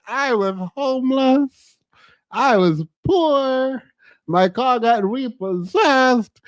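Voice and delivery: slow, whiny mock crying; mock sob story. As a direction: ham up a pitiful sob story. Mocking friend's sob story.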